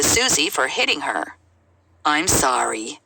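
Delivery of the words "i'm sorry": low, reluctant mumbled apology; a kid apologizing without meaning it; half-hearted sorry. Acted. Child forced to apologize to Susie, grudging half-hearted sorry. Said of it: "Say it like you mean it".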